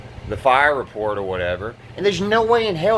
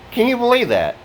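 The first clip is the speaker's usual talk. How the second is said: high, outraged disbelief; real disbelief; 10 semitones higher than usual. Real, not acted. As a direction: ask it as if it can't be true. Outraged tenant asks viewers.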